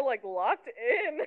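laughing. Real, not acted. Laughing at the idea.

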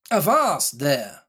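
slow, commanding cry. Acted. Silver halting Morgan, slow commanding cry. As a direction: stop him in his tracks. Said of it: "cried Silver".

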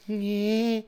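soft, goofy twisted-mouth "nyeh"; Jim Carrey. Retold or imitated. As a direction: imitate a rubber-faced comedian's noise. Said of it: "Jim Carrey one where he's like".

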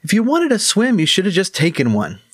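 high, teasing little gnome; joking gnome voice. Acted. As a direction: tease him lightly like a cheeky gnome.

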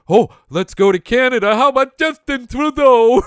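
high, loud mock-cheerful voice. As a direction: sell it like a sarcastic tour guide. Mock tour of world leaders.

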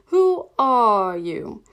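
loud, very slow, scornful question; drawn-out, loud contempt; contemptuous. A narrator's reading. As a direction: stretch each word out with disdain. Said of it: "said the caterpillar contemptuously".

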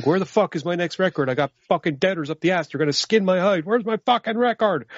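a panicking boss demanding his record, rising in pitch; miffed record executive. Retold or imitated. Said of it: "understandably a little bit miffed, going".

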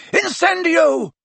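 high, drawn-out shouted incantation; yelled spell. A narrator's reading. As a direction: yell the spell long and high.

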